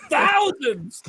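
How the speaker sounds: high, laughing emphasis; laughing tease. Real, not acted. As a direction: tease him through a laugh. Teasing with a laugh.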